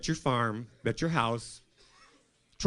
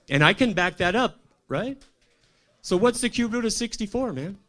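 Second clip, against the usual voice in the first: louder and higher, daring them; challenging the crowd; 7 semitones higher, 7 dB louder than usual. Real, not acted. Quizzing the comedy crowd on his IQ, loud and cocky. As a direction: put the audience on the spot.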